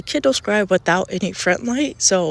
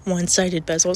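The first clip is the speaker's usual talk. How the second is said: congested, breathing through the mouth; heavy breathing; 2 semitones higher than usual. Real, not acted. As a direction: talk while breathing heavily through a blocked nose. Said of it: "sorry for my, like, heavy breathing and stuff".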